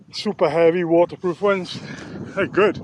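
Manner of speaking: slightly winded, talking between breaths; short of breath after walking. Real, not acted. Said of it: "Found myself out of breath".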